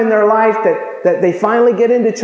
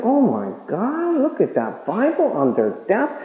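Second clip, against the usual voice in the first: hushed gasp; 6 dB quieter than usual. Retold or imitated. Coworker hushed gossip.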